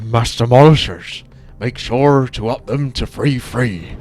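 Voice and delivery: put-on Tauren accent. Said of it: "I can't do the Tauren Chieftain accent".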